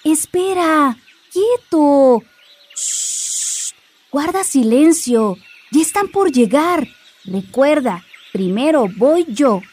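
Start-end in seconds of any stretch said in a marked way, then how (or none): 2.8-3.7 breathy whispered hush; whispered shush. Acted. Hushing the book.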